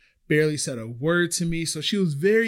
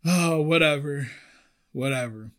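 high teasing coworker voice with a mock laugh; 11 semitones higher than usual. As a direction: tease the new girl, higher. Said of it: "they're like".

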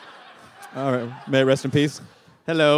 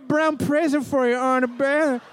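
high, put-on talking-dog voice; higher, goofy dog character; Diego the dog; 5 semitones higher than usual. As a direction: voice a simple pet dog talking to its mama. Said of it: "I do a voice of, of Chloe's dog, Diego".

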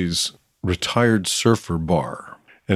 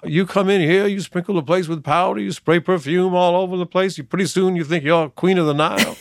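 much higher, mocking Stanley voice; truck driver reading Stanley; 10 semitones higher than usual. Polish truck driver reading Stanley's lines for Harry, much higher sneering voice. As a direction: jeer it up high like a brawling husband. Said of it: "He says".

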